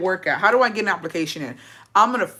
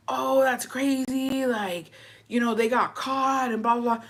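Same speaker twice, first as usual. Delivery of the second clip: slow, soft imitation of people gossiping; lightly mocking, drawn-out quote; mock casual gossip; 3 semitones higher, 5 dB quieter, slower than usual. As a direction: imitate an unbothered onlooker, dragging it out.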